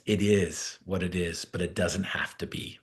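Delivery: soft, low and gentle; a quiet aside to the teammate on the bus; quiet sincere realization. Retold or imitated. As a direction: say it softly like a quiet revelation. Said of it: "and I'm like".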